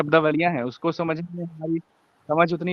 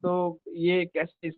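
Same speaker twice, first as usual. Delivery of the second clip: patchy call audio; call dropping out. Real, not acted. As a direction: voice cutting out on a poor line. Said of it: "आपकी आवाज आ ही नहीं रही है". (टूटती call की आवाज़)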